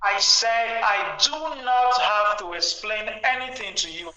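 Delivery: slowly, word by word; slow and deliberate. Real, not acted. Caller repeating himself slowly for the host, slow and deliberate. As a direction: spell it out slowly and firmly.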